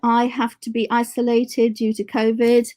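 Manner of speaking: muffled behind a face mask; speaking through a mask. Real, not acted. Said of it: "Forgive my mask".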